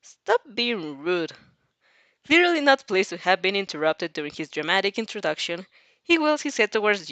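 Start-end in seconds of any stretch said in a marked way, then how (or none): 0.0-1.3 deadpan. Acted. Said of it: "You deadpan".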